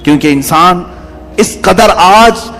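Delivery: rising and falling fervent preacher's cadence; sermon preaching. Real, not acted. Preacher warning his congregation, fervent sermon cadence. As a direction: preach it to the faithful with conviction.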